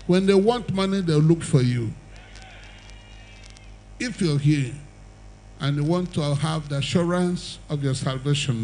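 fervent altar-call preaching. Acted. Preacher pleading with the crowd to come forward, fervent. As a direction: urge them forward to Christ.

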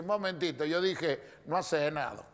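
composed, measured self-defence; sly. Acted. Crafty old man excusing himself to the cousin, sly. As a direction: correct him coolly, barely raising the voice. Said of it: "el viejo muy vivo le dice".

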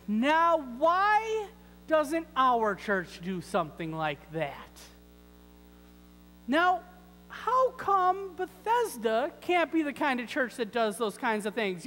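high-pitched, plaintive questioning; mock complaint. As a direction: complain to a friend like an envious churchgoer. Acted churchgoer complaining to a friend.

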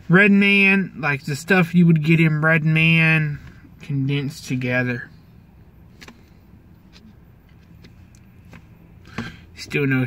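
talking around a wad; tobacco in cheek. Real, not acted. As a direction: lip pushed out, slurred. Seen 1: Cheek and lower lip bulge, mouth distorted while talking throughout.

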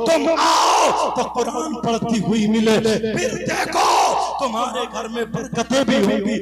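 exhorting preacher. Real, not acted.

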